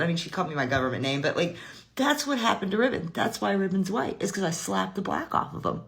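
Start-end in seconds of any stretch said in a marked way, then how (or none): 1.9-5.8 retold straight-faced warning; deadpan threat. Mama scaring the little cousins, mock serious. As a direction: imitate a mother figure scaring kids with a serious claim. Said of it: "say it with such a serious face".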